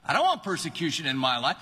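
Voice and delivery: mock recoil, high and fast; disgusted whine. Believer whining against persecution, high and hurried. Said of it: "You go".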